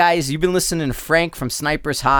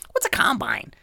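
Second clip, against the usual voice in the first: mock whisper; 8 semitones higher, 3 dB quieter than usual. Prank line whispered.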